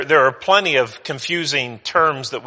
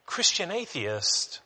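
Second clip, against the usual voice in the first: "Christian atheists?" repeated slowly, pitched higher, softer; echoed question; 4 semitones higher, 7 dB quieter, slower than usual. Shown as a demonstration. Preacher echoing his own question to the congregation, slow and higher. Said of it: "Or to say it another way".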